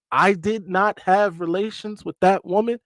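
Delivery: a hint of a politician's firm, measured denial; mock solemn denial, lightly impersonated; Bill Clinton. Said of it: "in my best Bill Clinton voice".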